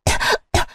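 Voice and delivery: soft unvoiced splutter after water going down wrong; choking cough. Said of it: "물을 마시다 사례가 들렸고요". (사레들린 기침)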